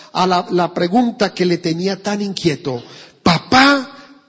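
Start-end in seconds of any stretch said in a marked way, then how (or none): 3.2-4.2 put-on high, bright child's call of papá; eager kid calling his dad. A narrator's reading. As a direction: call out like an eager little boy. Child's eager question in story.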